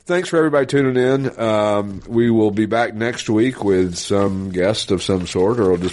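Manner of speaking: throaty forties movie star voice; hoarse from pollen allergies. Real, not acted. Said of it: "sorry for the, uh, throaty, uh, forties, uh, movie star voice".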